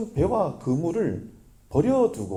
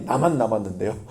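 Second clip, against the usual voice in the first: Elijah's complaint; 5 semitones lower, 4 dB louder than usual. Retold or imitated. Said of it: "엘리야가 늘 하는 말이".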